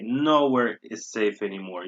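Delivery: "Nowhere" stretched and leaned on; emphatically negative "Nowhere"; stress on Nowhere. Shown as a demonstration. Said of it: "We're being very negative here".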